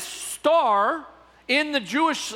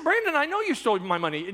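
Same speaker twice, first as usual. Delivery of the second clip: quick, raised-pitch insistence; insistent mock accusation; 4 semitones higher, faster than usual. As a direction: press the pretend charge fast. Acted quarrel, pastor insists.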